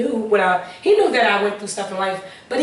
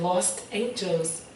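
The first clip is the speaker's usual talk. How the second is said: slow, soft and much quieter, like a voice from above; hushed divine voice; 2 semitones lower, 9 dB quieter, much slower than usual. Retold or imitated. Retelling how God answered her, in a slow hushed voice. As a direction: let the name drift in gently, almost breathed.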